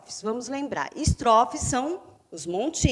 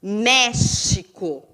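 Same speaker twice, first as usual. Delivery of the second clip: "México" slowly split, weight on "Mé"; slow "México" down, syllable by syllable; stressed first syllable; much slower than usual. Shown as a demonstration. Teacher showing a proparoxytone, slow stressed MÉ in "México". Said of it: "está na antepenúltima sílaba".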